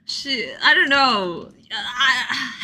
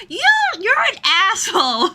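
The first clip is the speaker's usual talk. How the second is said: higher, laughing insult; Kaede teasing; 10 semitones higher, 6 dB louder than usual. Retold or imitated. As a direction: toss the insult through a laugh. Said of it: "she's like".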